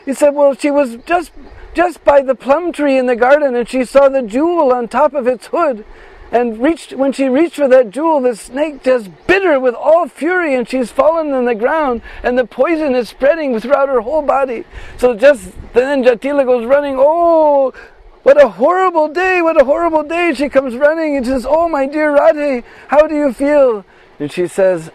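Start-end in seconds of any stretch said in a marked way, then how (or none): 0.3-14.6 higher, hurried worried report; a hint of a frightened young girl; lightly voiced distressed girl. Bisakha tells the snake story. 17.0-23.8 panicked mother-in-law. Acted. Jatila panics over daughter-in-law.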